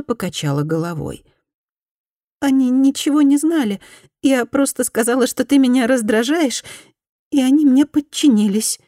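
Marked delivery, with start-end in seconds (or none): 2.4-8.8 higher, pleading former bully; repentant woman. Acted. Former bully apologises to Fumi, higher pleading voice. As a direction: beg forgiveness in a higher voice.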